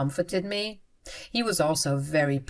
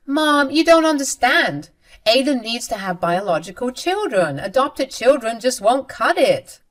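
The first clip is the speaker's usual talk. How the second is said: whiny, pushy daughter, pitched up; a light hint of a spoiled brat arguing back; insistent sister; 6 semitones higher, 4 dB louder than usual. Daughter argues with her mother, pushy and whiny.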